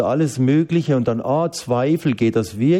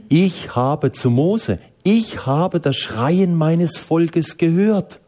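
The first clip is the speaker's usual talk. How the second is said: voice of God; 4 semitones higher, much slower than usual. Retold or imitated. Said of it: "Gott gesagt hat".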